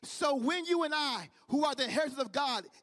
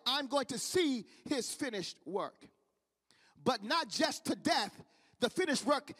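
emphatic sermon delivery with weighty pauses; preaching. Real, not acted. Preacher urging brothers and sisters to stake a claim, preaching. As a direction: preach it to the congregation, phrase by phrase.

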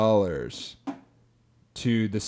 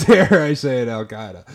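dramatic prosecutor; 4 dB louder than usual. Pretend. Mock prosecutor accusation.

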